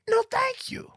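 breathy whispered no thank you. Pretend. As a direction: whisper it, drawn out. Repeated brush-off, now whispered.

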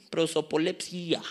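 "Prosopolepsia" slowly, with the accent on the I of the ending; "Prosopolepsia" drawn out on its final stressed I. Shown as a demonstration. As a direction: sound out "Prosopolepsia" as pro-so-po-lep-SÍ-a. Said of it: "con acento en la I".

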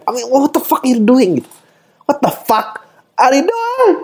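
high-pitched, incredulous outburst; exasperated. Acted. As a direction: stretch out the disbelief in a high voice. Exasperated outburst at the rule change. (kesal tak percaya, nada tinggi)

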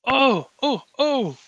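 nervous Doctor Morpheus. Acted. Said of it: "Doctor Morpheus's voice just nervously say".

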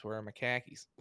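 light Boston accent, khakis for car keys. Shown as a demonstration. Host teaching co-host a Boston accent, light mock Boston accent. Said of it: "all you gotta do to get a Boston accent is".

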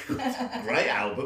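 laughing through the words. Real, not acted. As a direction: chuckle the phrase out. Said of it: "Good album".

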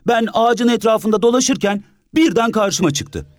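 put-on high child's story. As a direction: tell it like a wide-eyed boy. Orhan child voice.

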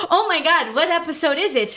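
high, loud hammed-up thrill; mock excitement. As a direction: gush like it's huge news. Mock-thrilled at a special episode.

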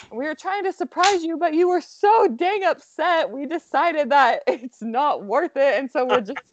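lightly voiced husband, high and sheepish with a laugh; a hint of a guilty husband owning up; quoting husband. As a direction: confess the failed surprise in his voice. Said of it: "And he's like".

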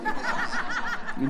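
mock triumph at his wife, laughing; gloating laugh. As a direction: crow over her failing. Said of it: "I'm like".

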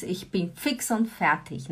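soft, slow, worn-out ich bin fix und fertig; tired complaint. Pretend. Lilian telling her partner she is exhausted, softly. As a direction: drag it out, spent after work. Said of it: "A Lilian chega e fala assim".

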